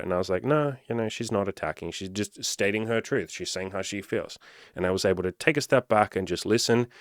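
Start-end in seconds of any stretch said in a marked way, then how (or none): 0.4-4.4 calmer self-talk. Retold or imitated. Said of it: "took a deep breath and thought about it".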